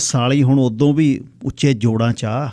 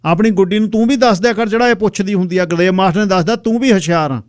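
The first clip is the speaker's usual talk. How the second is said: calling out; 8 semitones higher, 4 dB louder than usual. Acted. Older man calls to boy.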